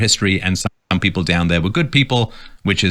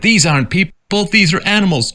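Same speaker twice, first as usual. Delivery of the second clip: quote of Trump; 10 semitones higher than usual. Retold or imitated. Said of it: "I'm not gonna imitate him, it's too gross".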